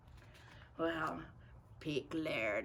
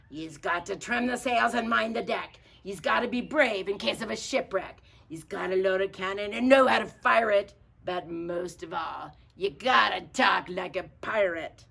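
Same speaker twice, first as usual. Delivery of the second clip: pirate declaration; 7 dB louder than usual. Acted. Captain declares the rules.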